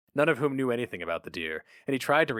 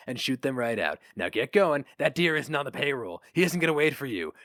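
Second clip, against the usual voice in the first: lightly voiced gruff newspaper boss; a hint of a jaded editor reminiscing; boss Flammer; 4 semitones higher than usual. Flammer sends David off.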